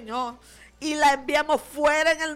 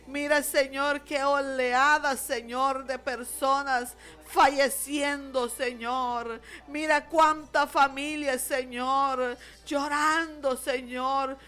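pleading, rolling intercessory prayer; fervent prayer. Real, not acted. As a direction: plead with God for grieving families.

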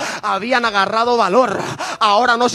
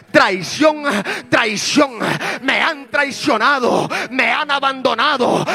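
furious queen; 5 semitones higher than usual. Acted. Queen Athaliah crying treason at the crowd, in an acted furious shout. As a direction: rant like a betrayed queen losing her grip. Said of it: "oh, se enojó tanto".

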